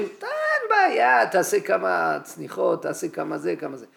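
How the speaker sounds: a hammed-up breezy no-problem voice; mock reassurance. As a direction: parody the easy advice. Mocking glib advice.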